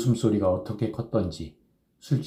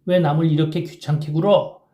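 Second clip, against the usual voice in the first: higher lady's voice, sweet as an oriole; 8 semitones higher, 5 dB louder than usual. A narrator's reading. Kim mimicking the schoolgirl who refused him, sweet oriole voice. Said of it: "정말 꾀꼬리 같은 소리를 내었다".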